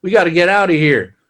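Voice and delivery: mock urgent call. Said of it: "and he's like".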